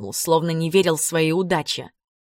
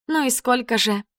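равнодушно; 6 semitones higher than usual. A narrator's reading. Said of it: "равнодушно".

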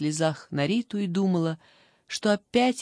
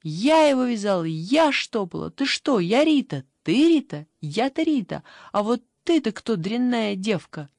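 furious yell; 3 semitones higher, 5 dB louder than usual. Acted. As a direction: shout her down, insulted. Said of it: "Девчонка заорала".

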